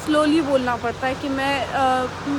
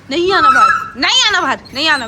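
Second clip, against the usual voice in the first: firm calling out; 2 semitones higher, 8 dB louder than usual. Real, not acted. Telling dogs to stay in.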